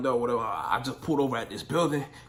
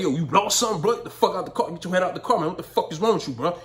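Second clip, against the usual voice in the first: mock angry yell; 5 semitones higher, 5 dB louder than usual. Telling stranger to get out.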